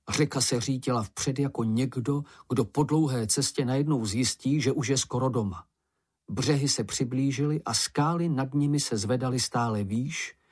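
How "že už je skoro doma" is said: ordinary delivery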